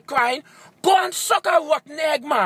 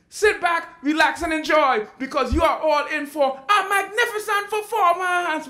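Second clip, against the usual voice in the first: showman announcement. Acted. Announcing his show after interruption.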